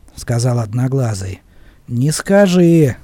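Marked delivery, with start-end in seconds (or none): 1.9-3.0 slow, pensive reply; thoughtful. Acted. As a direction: muse it over slowly. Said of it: "задумчиво проговорил я".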